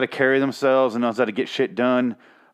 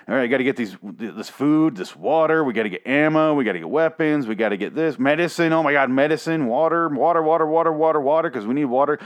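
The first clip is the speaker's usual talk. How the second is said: frantic shopping list; 3 semitones higher than usual. Pretend. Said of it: "you're like".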